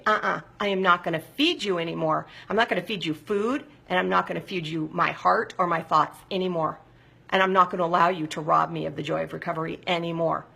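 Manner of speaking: firm, measured defiance; talking back. Acted. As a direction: stand your ground against an inner enemy. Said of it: "I talk back to it".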